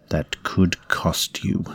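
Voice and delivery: slow, drawn-out creature threat; menacing parasite. Acted. Parasite warning the host who refuses feeding, slow menace.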